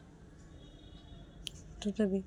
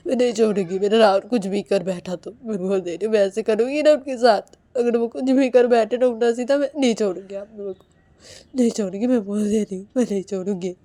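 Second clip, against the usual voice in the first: loud, firm warning; angry threat; 2 semitones higher, 11 dB louder, faster than usual. Acted. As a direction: lay down the threat hard. Woman threatens family over Rahul.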